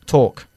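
"talk" with a rounded aw vowel; correct "talk". Shown as a demonstration. Teacher confirms for the student, "talk" with rounded aw. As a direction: model "talk" close to "tork". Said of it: "Como casi talk".

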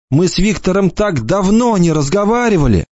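put-on tearful girl pleading for her brother. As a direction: plead with him, hopeful. Bronwyn's voice.

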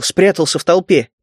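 ordinary delivery, nothing marked

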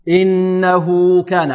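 slow, drawn-out Quran recitation. Shown as a demonstration. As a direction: recite it slowly. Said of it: "عندما نقف نقول". (تلاوة بطيئة)

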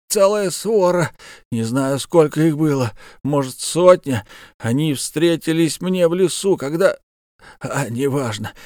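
pained, strained bandit voice; wounded bandit. Acted. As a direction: speak through fresh wounds. Wounded bandit tells his story.

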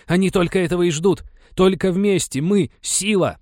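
high, loud rallying cry; shouting. Acted. Venchura shouts to keep the people united, loud and high. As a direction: shout them back together. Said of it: "крикнул Венчура".

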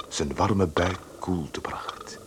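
slow, soft whisper; whispered narration. A narrator's reading. Narrator describes the cool glass, whispering slowly. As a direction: let the line sink to a slow hush.

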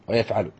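ويفعل as wa-yaf-'a-lu, falling; middle vowel A. Shown as a demonstration. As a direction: close the list on ويفعل with fatha on the ayn. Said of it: "ثلاثة أبواب في مضارعه".

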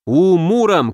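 mild shout. Acted. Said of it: "крикнул Алёша".

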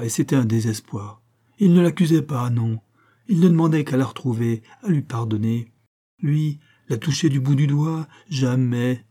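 a sister swearing to his innocence; indignant young woman. Acted. Susan defending Michel.

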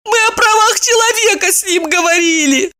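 high, crying voice with a shout; tearful protest. Acted. Maya justifying herself to friends, high tearful cry. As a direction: wail it out through tears.

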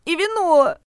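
comfort-food wish through tears; sniffling request. A narrator's reading. Regina asks the heroine for cake and wine, sniffling. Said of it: "всхлипнула Регина".

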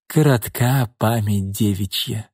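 head-shaking reproach, drawn out; reproachful. Acted. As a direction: tut at her like a disappointed old pimp. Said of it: "укоризненно покачал головой Шкворень".

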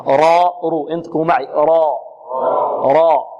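full, heavy r on راء; heavy ra drill. Shown as a demonstration. Teacher asking pupils to repeat along, thickened ra. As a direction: say راء and رو thick, mid-tongue hollowed. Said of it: "متى تفخم الراء".

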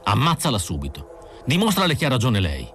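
exasperated partner snapping at Phil; angry goading. Acted. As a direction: goad him in frustration to shoot. Rick furiously goading Phil.

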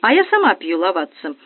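joyful announcement. Acted. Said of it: "радостно возвестила хозяйка".

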